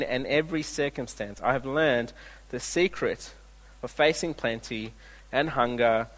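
a preacher reading the text aloud, winding down to the close; scripture reading. Acted. Reads the scripture passage.

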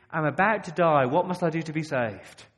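loud pretend cry for help; desperate cry. Imagined drowning person shouting to a churchgoer, desperate cry. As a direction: call out like someone drowning.

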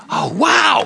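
put-on high delighted shout of a child; thrilled kid. Grandchild thrilled at grandpa's promised surprise, delighted high shout.

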